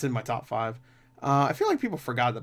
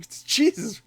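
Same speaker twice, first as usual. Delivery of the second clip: Seth Rogen; 10 semitones higher, slower than usual. Retold or imitated. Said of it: "he's high in a church".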